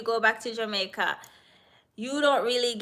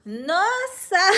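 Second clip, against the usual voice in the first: high and loud no; high, loud, emphatic no; emphatic refusal; 10 semitones higher, 5 dB louder than usual. Real, not acted. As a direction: shut the idea down laughing. Refusing with a laugh.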